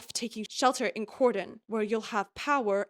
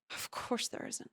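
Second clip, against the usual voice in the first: a soft, shaken whisper to herself; 12 dB quieter than usual. A narrator's reading. Violet alone in her bedroom after the nightmare, whispering. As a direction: breathe the words out alone in the dark. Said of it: "I whisper aloud".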